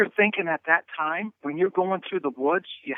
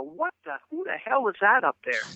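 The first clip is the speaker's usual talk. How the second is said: a retold, baffled exclamation; startled outburst; 4 semitones higher than usual. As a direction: caught off guard, blurting it out. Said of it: "I go".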